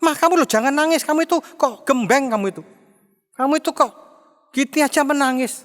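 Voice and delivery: mild mock scolding of a crying wife. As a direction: tell her off for crying, half-acted.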